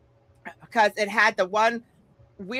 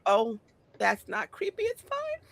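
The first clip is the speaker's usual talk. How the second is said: sarcastic; 6 dB quieter than usual. Retold or imitated. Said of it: "I'm like".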